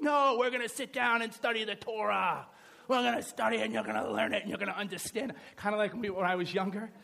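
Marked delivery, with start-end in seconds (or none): 0.0-5.3 insistent mock-parent lecture; strict parent. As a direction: lay down the law to a child. Voices a strict parent answering child.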